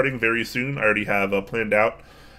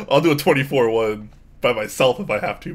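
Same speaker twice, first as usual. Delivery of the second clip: chuckling through the words; laughing; 4 semitones higher, 3 dB louder than usual. Real, not acted. Laughing while joking about streaming.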